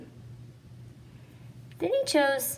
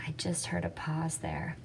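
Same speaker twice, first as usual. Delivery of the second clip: whispered aside; 6 dB quieter than usual. Real, not acted. Teacher notes a pause aside.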